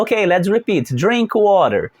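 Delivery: slow clear classroom model; teacher modelling. Shown as a demonstration. Teacher models the phrase for students to repeat, clearly. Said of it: "Então eu falo".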